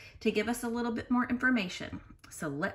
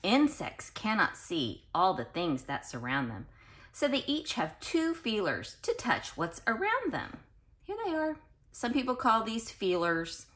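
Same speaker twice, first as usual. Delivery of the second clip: put-on reading to children. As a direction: read it out to the class with bounce. Reads book aloud to class.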